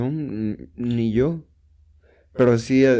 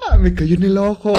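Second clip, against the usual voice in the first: high loud disgusted wail; girl splattered with vomit, high loud complaint; 8 semitones higher, 7 dB louder than usual. Retold or imitated. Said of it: "Y las niñas".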